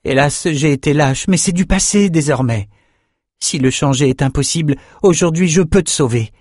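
high-pitched, earnest entreaty; pleading. Acted. Young fencer begging his friend to be free, pleading. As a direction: beg a friend to come away with you. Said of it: "je t'en supplie".

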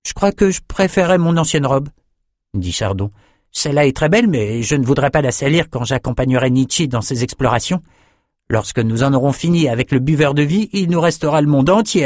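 voix de fillette un peu plus aiguë, hésitante puis décidée; petite fille polie. Acted. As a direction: une enfant qui refuse gentiment. Chardon, la fillette, répond. (fillette qui décline poliment le cadeau)

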